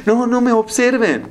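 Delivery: high put-on whiny protest; mock protest. Woman in tight clothes protesting, high mocking voice. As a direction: mimic her feigned objection. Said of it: "y dice".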